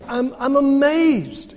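amazed Paul. Retold or imitated. Preacher voices Paul's shock at the Galatians, slow and amazed. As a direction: let the amazement stretch out slowly. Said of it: "he says".

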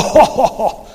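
loud hammed-up ogre guffaw; ogre belly laugh. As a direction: laugh loudly after the fleeing villagers. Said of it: "he goes".

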